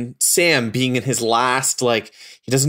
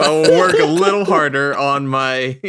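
put-on a light, half-hearted New York accent, a touch louder; attempted New York accent; 4 semitones higher, 5 dB louder than usual. Host signing off to listeners, faint attempted New York accent. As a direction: try for New York and barely land it. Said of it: "I was trying for a New York accent".

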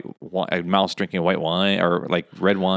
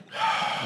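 long exaggerated sigh; collective sigh; 8 dB quieter than usual. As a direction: heave a big staged sigh. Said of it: "have a collective sigh".

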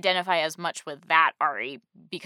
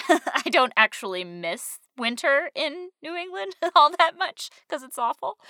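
laughing; 9 semitones higher, 5 dB louder than usual. Real, not acted. Laughing complaint.

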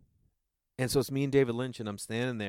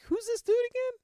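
much higher, put-on puzzled voice; puzzled Lynch thought; 3 dB louder than usual. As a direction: play him baffled by this guy. Imagining Lynch's stunned look.

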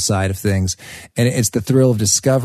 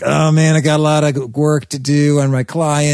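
lightly imitated coworker's whine; a touch of put-upon whining; mock whine. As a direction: complain like an overloaded colleague, a mild whine. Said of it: "whine like".

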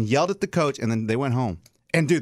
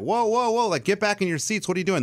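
alarmed coach; 6 semitones higher than usual. Retold or imitated. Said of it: "the coach was like".

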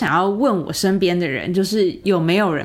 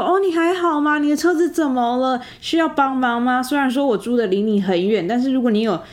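raised, gently worried friend's voice; caring concern; 5 semitones higher than usual. Retold or imitated. Old friend checking on her after the car broke down, caring and raised. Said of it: "用很关心的语气在问我".

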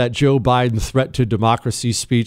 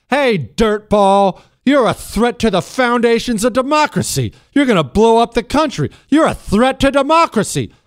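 mocking Biden; 8 semitones higher than usual. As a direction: sneer the accusations like a self-righteous politician. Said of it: "they talk like this".

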